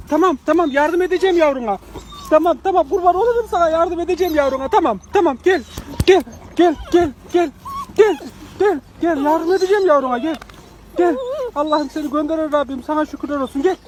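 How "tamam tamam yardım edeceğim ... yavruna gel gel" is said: raised, louder coaxing call, tamam and gel repeated; soothing a scared dog, louder and higher. Real, not acted. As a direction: call the frightened dog gently but loudly to come.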